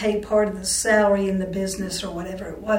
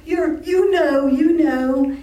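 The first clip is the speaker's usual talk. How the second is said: higher, louder, insistent hinting; imitated upset mother; 6 semitones higher, 7 dB louder, much slower than usual. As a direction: imitate an upset mother who won't name it. Upset mother avoiding the word.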